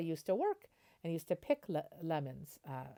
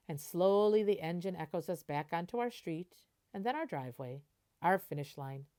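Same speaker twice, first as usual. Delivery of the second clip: gentle storybook reading voice; picture book narration; 3 dB louder than usual. Acted. Teacher reading a picture book to the class, storybook voice. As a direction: read it like a bedtime story.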